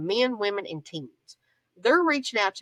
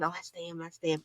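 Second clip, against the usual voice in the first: whispering; 2 semitones lower, 9 dB quieter than usual. Retold or imitated. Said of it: "They're whispering".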